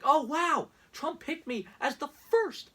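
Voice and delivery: high, gushing starstruck voice; mock-swooning Trump supporter; mock gullible fan. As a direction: play the fool who believes it. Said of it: "are there some people on the planet who actually fall for this stuff".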